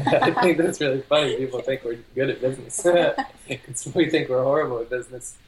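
amused, laughing through it; chuckling disbelief. Real, not acted. Amused at being called business-savvy.

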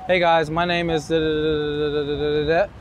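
words sucked in on the inhale; speaking on the inhale. Shown as a demonstration. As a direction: talk while breathing in. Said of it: "let me show you".

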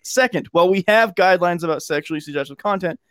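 measured read of a corporate statement; formal statement reading. Shown as a demonstration. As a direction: read it like an official announcement. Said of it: "read it in normal voice".

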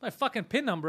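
high, indignant mock yell at the cashier; retold outrage. Ranting at the pizza cashier who asked for his pin, mock yell. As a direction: replay losing it over a pin request. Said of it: "And I fucking lost my mind".

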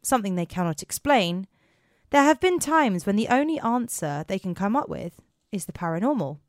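measured, lively read-aloud delivery; story narration. A narrator's reading. Host setting up officers' paranormal stories, in story narration. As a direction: introduce the tale with clear, deliberate phrasing. Reads the podcast introduction.

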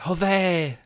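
loud, high mock outburst of Joder; imitating angry swear. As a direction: fling out Joder like the annoyed housemate. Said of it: "she says it like that".

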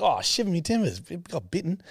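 high, put-on pirate exclamation; mock pirate voice. Retelling Spider-Man to a friend, joking pirate voice. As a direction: ham up a pirate's surprise. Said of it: "He's like".

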